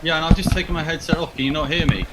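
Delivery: distant echoey mic; echoey, far from the mic. Real, not acted. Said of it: "exactly the same as when you did have your headset on".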